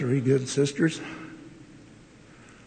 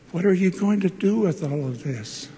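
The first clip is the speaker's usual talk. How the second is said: raised, commanding question, a bit higher; powerful voice; 5 semitones higher, faster than usual. Retold or imitated. Elder Peterson questioning young Lee about his attic lab, in a powerful voice. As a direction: boom it out like a visiting elder. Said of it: "And in a powerful voice".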